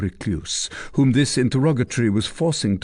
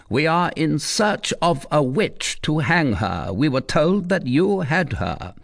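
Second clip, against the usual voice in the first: higher, hard-edged demand; stern commander; 7 semitones higher than usual. Acted. Commander questioning the recluse, stern and pressing. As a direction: press the old woman for the witch.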